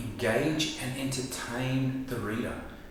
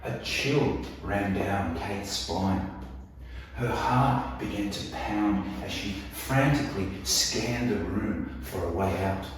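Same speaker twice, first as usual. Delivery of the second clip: suspenseful reading. Shown as a demonstration. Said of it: "how about this one".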